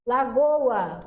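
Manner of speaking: "Lagoa" as la-GO-a, both vowels full; hiato pronunciado. Shown as a demonstration. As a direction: stress GO in "Lagoa" and keep the A separate. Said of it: "a gente pronuncia tanto o O quanto o A". ("Lagoa" com O e A bem pronunciados)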